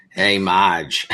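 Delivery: lightly voiced cartoon sister; a hint of a gruff sister, laughing; Selma voice. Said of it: "I sound like Selma from, uh, The Simpsons".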